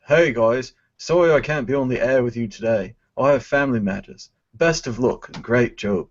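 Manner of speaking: lightly put-on British accent, barely there; a clumsy try at an English accent, drifting Scottish; mock British accent. Host reading a chat comment in a shaky British accent. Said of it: "That was a disaster of an accent".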